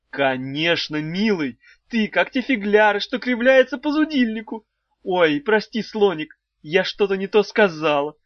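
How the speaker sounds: high, sing-song wife voice; a high cooing old wife; wife's high voice. A narrator's reading. Wife teasing the trapped children, high and cooing. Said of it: "спохватилась Далила Петровна".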